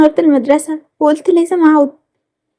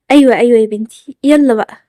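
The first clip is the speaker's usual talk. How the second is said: lightly voiced mother, pitched lower; mother figure; 5 semitones lower than usual. Mother replying to her daughter, lightly voiced lower role.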